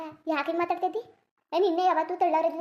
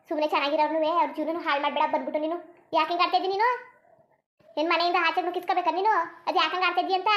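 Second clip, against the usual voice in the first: angry scolding. Acted. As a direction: scold her son and insult the wife. Mother scolds son Suri angrily.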